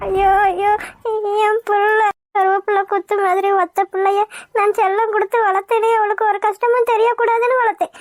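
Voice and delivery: put-on a mother crying for her lost child; acted sobbing grief; weeping lament. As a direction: lament tearfully, grieving aloud. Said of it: "அழுகுது பாரு".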